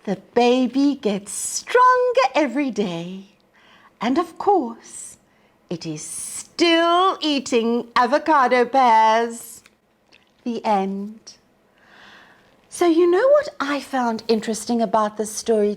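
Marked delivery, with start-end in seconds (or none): 0.0-11.4 put-on lively storybook narration for young listeners; reading to children. A narrator's reading. Teacher reading a picture book to children, lively storybook voice. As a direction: read it like story time on the rug.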